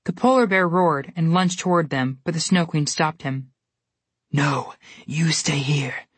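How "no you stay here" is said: cold order. A narrator's reading. Snow Queen ordering the polar bear to stay, slow and cold. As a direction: hold the bear back with icy calm. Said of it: "she ordered".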